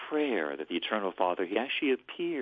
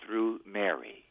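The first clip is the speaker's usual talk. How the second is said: prayer phrase; 2 semitones higher than usual. Shown as a demonstration. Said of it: "But I'll do it phrase by phrase".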